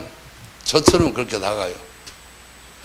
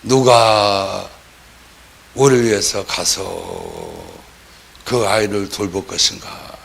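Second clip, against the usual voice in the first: voice of God; 4 semitones lower, slower than usual. Retold or imitated. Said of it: "말씀하시되".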